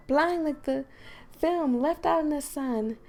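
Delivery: game character reading her poem aloud; Monica's voice. Acted. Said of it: "Supposed to be reading it in Monica's voice".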